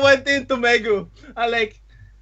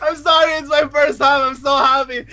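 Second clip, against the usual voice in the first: excited gushing; 5 semitones higher than usual. Retold or imitated. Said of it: "I'm like".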